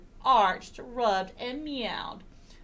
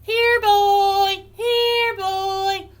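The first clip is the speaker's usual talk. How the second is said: loud, high, sustained call; high sing-out summons; calling the dog; 12 semitones higher, 10 dB louder, much slower than usual. Acted. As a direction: holler for a dog far away.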